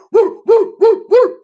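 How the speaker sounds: high, loud whoop of triumph; hyped cheer. Real, not acted. Hyped mid-rant cheer.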